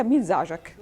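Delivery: light Levantine question; Lebanese-Syrian accent. Shown as a demonstration. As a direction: try it in Levantine dialect. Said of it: "كيف اطلعها باللبناني والسوري".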